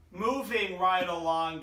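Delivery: loud, slow announcer build-up; hyped announcer. Real, not acted. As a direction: announce the next team like a show host. Fantasy rankings show host announcing.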